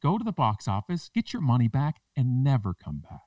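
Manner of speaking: high, indignant mock telling-off; manager ordering customer out. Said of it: "She's like".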